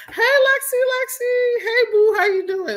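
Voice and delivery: light up to greet a friend in chat; squealing hey to a viewer who joined; excited greeting. Real, not acted. Greeting viewer joining live chat.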